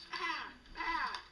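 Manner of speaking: sheep bleat. Acted. Sheep calls again.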